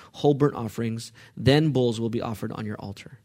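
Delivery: measured psalm read as a prayer; scripture reading. Acted. Reads psalm aloud as prayer.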